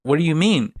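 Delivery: high-pitched, incredulous retort; baffled disbelief. Retold or imitated. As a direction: act out a baffled, sputtering reaction. Lawrence reacts in baffled disbelief.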